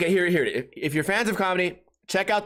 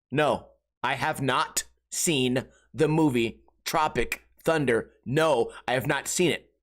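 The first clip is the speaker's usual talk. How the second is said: slow, lower, word-by-word denial; deliberate weary answer; 5 semitones lower, slower than usual. Retold or imitated. Answering a friend who keeps asking, slow and deliberate. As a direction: spell it out with strained patience.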